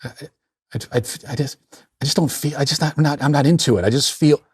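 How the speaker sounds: hesitant mock complaint to Granddad; whining grandson. Grown grandson confiding to his granddad about playing catch, mock-hesitant whining. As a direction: stammer it out weakly, trailing into unfinished thoughts. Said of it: "you went to him and said".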